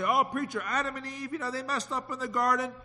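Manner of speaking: a lightly voiced objecting congregant; objecting churchgoer. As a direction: play the churchgoer who pushes back on the preacher. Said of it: "jump and say".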